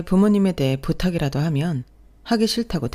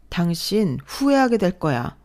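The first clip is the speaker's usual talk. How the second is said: slow warning; 2 semitones higher, slower than usual. Acted. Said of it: "후회하게 될 거라고?".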